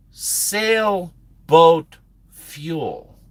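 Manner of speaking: dumbfounded emphasis. Retold or imitated. Trucker repeating himself to a clueless officer, drawn-out disbelief. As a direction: spell out the absurdity by dragging every word.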